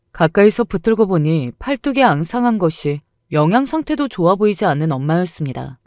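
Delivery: plain reading voice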